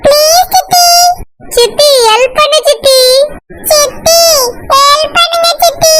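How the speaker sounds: high, drawn-out pleading; childish begging. Acted. Children beg their aunt to keep the secret, high pleading.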